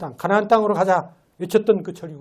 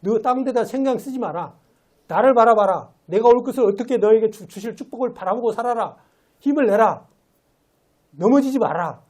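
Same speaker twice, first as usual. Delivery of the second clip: preaching the plea louder, pressing; a preacher's rising exhortation, urgent and louder; urgent calling out; 3 semitones higher, 3 dB louder than usual. Acted. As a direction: call out to the church to hold on. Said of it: "이렇게 외치고 있는 겁니다".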